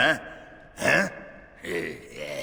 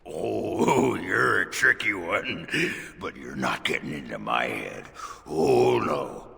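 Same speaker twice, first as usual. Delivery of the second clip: paranoid. Acted. Paranoid talk to nobody.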